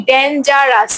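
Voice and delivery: "ডেঞ্জারাস" split into three separate beats; syllable by syllable. Shown as a demonstration. Teacher counting lip movements for students, "ডেঞ্জারাস" said syllable by syllable. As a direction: break "ডেঞ্জারাস" into syllables, a small gap after each. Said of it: "আমার ঠোঁট কতবার নড়ছে".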